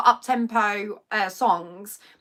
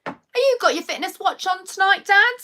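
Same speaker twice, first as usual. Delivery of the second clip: much higher, sing-song check-up; bright question to dad; 10 semitones higher, 6 dB louder than usual. Retold or imitated. Daughter checking on her dad's watch, higher sing-song. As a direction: coax him like a parent.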